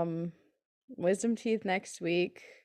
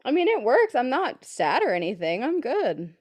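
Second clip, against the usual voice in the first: defensive; 5 semitones higher, 5 dB louder than usual. Real, not acted. Defensive reply.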